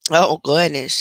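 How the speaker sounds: yawning. Real, not acted. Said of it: "that was a big yawn".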